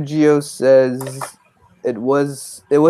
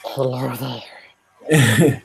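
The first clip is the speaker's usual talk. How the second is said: Obi-Wan greeting; much slower than usual. Retold or imitated. Co-host quotes Obi-Wan slowly.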